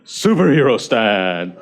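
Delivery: slow, emphatic pose cue; slow power call-out. Shown as a demonstration. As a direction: announce the pose with weight. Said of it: "So ready?".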